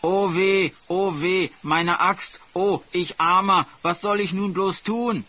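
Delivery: high-pitched, hammed-up lament; put-on wailing. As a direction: fake moaning to attract pity. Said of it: "gab sich mit seinem Gejammer alle Mühe".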